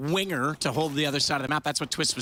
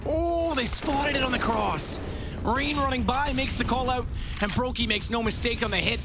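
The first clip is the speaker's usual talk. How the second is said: surprised; 6 semitones higher than usual. Real, not acted. Surprise call in live cast.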